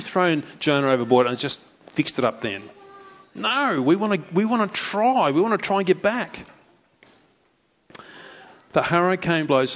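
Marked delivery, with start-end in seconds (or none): 3.3-6.5 sailors. Acted. Sailors voiced insisting.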